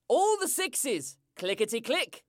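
slow, measured bingo call; bingo caller. Acted. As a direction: call the numbers like bingo night. Bingo calls.

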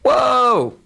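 high, loud startled "What? Whoa!"; sudden pitch jump of disbelief; surprised. Retold or imitated. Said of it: "And I was like".

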